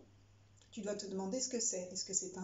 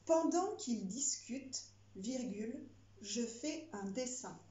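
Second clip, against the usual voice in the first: dictating. Shown as a demonstration. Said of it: "Phrase suivante".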